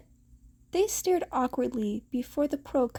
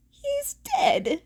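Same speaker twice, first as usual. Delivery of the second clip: mock panic; 12 semitones higher than usual. Panicked inner thought.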